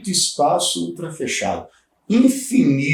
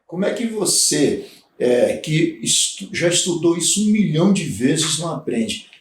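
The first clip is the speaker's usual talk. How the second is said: exasperated teacher; 2 semitones higher than usual. Shown as a demonstration. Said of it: "Por exemplo".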